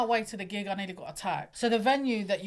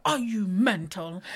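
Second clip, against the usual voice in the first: mock shocked disbelief; 3 dB louder, slower than usual. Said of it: "He's like".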